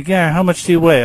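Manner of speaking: student voice. Retold or imitated. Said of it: "You say to me".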